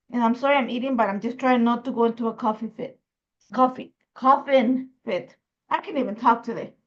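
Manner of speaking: talking with a mouthful of chocolate; mouth full. Real, not acted. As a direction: speak around a bite of chocolate. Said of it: "Maybe because my mouth is full".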